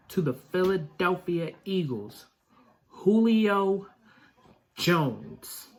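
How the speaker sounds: building from normal to a high, loud, drawn-out hype; hyped announcement. Real, not acted. Fan announcing Julio Jones to his viewers, building hype. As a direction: drag out the big reveal like an announcer. Announcing a big new signing.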